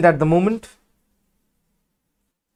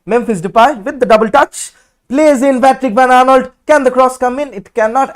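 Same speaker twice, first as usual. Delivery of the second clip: raised pitch as the attack builds; excited play-by-play; 6 semitones higher, 3 dB louder than usual. Real, not acted. Commentator following a cross attempt, excited play-by-play. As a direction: call the attack with rising urgency.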